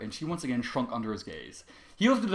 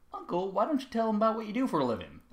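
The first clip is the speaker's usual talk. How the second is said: innocent; 9 semitones higher than usual. Acted. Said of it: "Bloom asked innocently".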